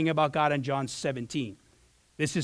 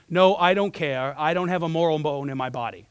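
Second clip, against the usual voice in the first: measured quote of a firm refusal; firm reply. Retold or imitated. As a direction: retell his firm answer, taking time on the first words. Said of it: "a quick one and a very firm one".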